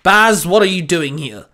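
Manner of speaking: loud, stern captain's bark. Acted. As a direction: bark it at a subordinate. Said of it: "the captain barked".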